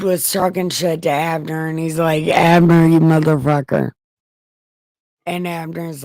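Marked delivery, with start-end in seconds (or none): 2.3-3.9 loud taunting yell across the valley; mock taunt. David yelling insults at Abner from the mountain, loud taunt.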